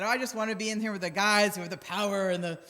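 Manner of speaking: hammed-up power-hungry man, bursting into a gloating laugh; mock macho guy. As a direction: swagger through it like a guy hogging the remote.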